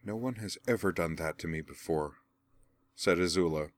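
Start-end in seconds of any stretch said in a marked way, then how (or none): 0.0-2.2 astonished and sullen. Acted. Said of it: "between astonished and sullen".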